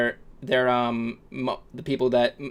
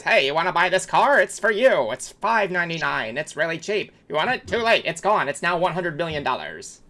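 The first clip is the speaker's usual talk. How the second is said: high, pushy car-salesman patter; 4 semitones higher than usual. Shown as a demonstration. Demonstrating his salesman voice on a car, salesman pitch. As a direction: sell it hard, higher than usual. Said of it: "that's, like, my salesman, man voice".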